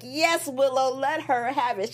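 high, egging-on cheer. Retold or imitated. Urging a character during a fight, in a high, excited voice. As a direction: egg her on up high. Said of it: "I'm like".

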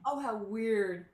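loud, slow marvelling; wowed listener's drawn-out reaction; real amazement. Real, not acted. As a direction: draw it out loudly, struck by the coincidence. Amazed reaction to uncanny coincidence.

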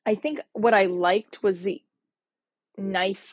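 hushed confession, barely voiced; whisper. Real, not acted. Admitting to her listeners what she liked, whispered. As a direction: let it slip out as a whisper.

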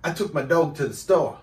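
lightly put-on British accent for someone to copy. Shown as a demonstration. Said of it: "Say something in a British accent".

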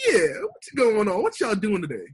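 hammed-up rapper hello. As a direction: stretch the opening, imitating a rapper. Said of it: "Holding they nuts talking about".

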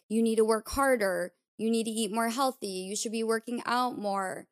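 a touch of harsh scolding at the mirror; harsh self-talk. Retold or imitated. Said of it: "Instead of being like".

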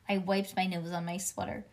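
usual speaking voice

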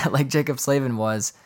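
laughing retake after the crack; amused restart of the line; laughing through it. Real, not acted. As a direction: push the words out through real laughter. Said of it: "I'm crying".

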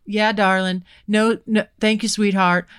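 lightly voiced smooth flirt; a touch of Southern charm; imitating a flirting cowboy. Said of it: "turn it on".

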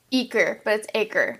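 Eker said as EE-ker, then acre as AY-ker; wrong then right name. Shown as a demonstration. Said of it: "person says".

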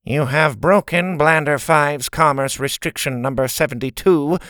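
nasal, emotionless principal. Acted. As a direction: read the rules nasally. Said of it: "in her nasally voice".

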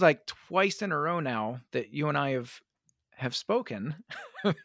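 losing her voice, hoarse; rough, fading voice from allergies. Real, not acted. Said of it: "my voice is gone".

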